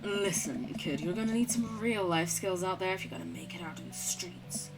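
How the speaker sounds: streetwise adviser. Acted. Plays a character advising Amanda.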